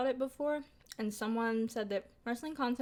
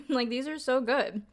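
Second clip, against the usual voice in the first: laughing; 2 semitones higher, 7 dB louder than usual. Real, not acted. Laughs while praising food.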